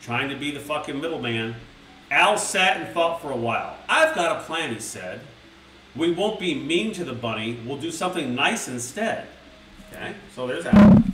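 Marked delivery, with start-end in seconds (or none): 2.1-9.3 lightly voiced children's story narration; storybook reading. A narrator's reading. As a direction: read it like a bedtime book. Reads storybook to chat.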